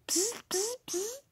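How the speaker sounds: soft unvoiced psst; whispered psst. Teacher whispering to the boy to come. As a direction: call him in a whisper.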